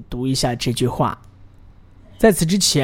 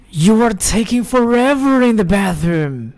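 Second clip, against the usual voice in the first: higher, urgent, fed-up complaint; impatient and annoyed; 7 semitones higher than usual. Shown as a demonstration. To someone hogging the bathroom twenty minutes, impatiently. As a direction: hurry them out, you can't wait any longer. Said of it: "我们来加入情绪".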